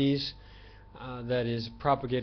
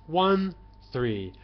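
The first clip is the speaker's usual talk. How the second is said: high and low tone demo; 4 dB louder, much slower than usual. Shown as a demonstration. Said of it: "those are tones".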